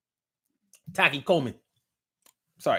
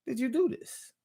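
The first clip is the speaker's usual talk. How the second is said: retold amazement; 4 dB quieter than usual. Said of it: "I was like".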